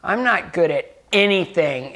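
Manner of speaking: slow, imitated self-reproach, mildly bitter; angry, bitter. Retelling how the little girl judged herself, slowly, mildly bitter. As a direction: draw out the girl's frustrated verdict on herself. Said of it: "it's like she was angry".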